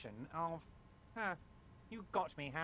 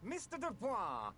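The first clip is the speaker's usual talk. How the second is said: calling out. Acted. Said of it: "snaps his fingers".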